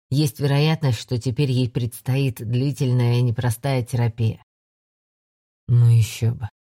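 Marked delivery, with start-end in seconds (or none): 5.7-6.5 dismissive, forced through teeth; spat out carelessly. A narrator's reading. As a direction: toss it off with contempt. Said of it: "небрежно выплюнул сквозь зубы Андер".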